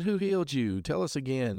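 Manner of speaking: lightly acted, high-pitched demand; insistent questioning. Acted interrogators demanding answer again.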